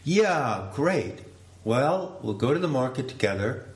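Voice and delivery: pushing it. Pretend. Guest pressing the host to shop together, insistent. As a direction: keep pushing the plan. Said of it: "pushing it".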